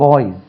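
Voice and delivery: பாய்ஸ் ending in a voiced 'z'; final Z sound. Shown as a demonstration. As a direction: say பாய்ஸ் as 'baaiz'. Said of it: "Z என்று உச்சரிக்கணும்". (பாய்ஸ் கடைசியில் Z ஒலியுடன் சொல்)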